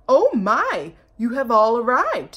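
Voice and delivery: loud, sugary greeting; sly cat. Acted. Cat greeting the arriving mice, sugary. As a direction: purr a fake welcome. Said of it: "said the cat".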